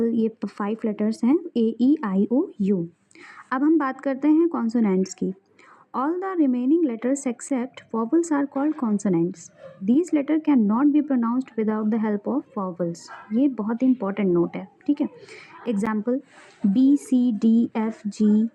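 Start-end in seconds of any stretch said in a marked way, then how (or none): 6.0-13.0 reading a textbook definition slowly, word by word; slow dictation. Acted. Teacher dictating a grammar definition to students, slow and deliberate.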